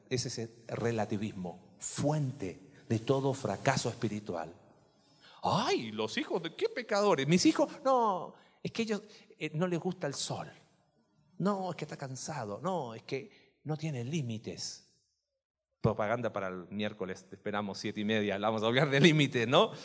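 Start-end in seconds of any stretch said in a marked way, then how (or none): 5.4-14.8 mock parent making excuses, pitched up at first; a doting parent waving off all blame; defensive parent. Parent defending own children. (padre consentidor imitado, poniendo excusas)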